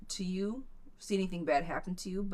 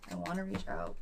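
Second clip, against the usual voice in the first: reading the client's words; 10 semitones lower, 4 dB quieter than usual. Retold or imitated. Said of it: "Should I reach out to Al".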